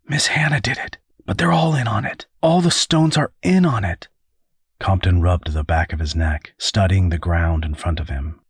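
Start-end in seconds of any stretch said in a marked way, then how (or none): 0.0-4.1 high-pitched, upset confiding; tearful. A narrator's reading. Tearful son naming the killers to his father. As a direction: pour it out high, fighting tears. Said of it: "couldn't keep the tears from welling".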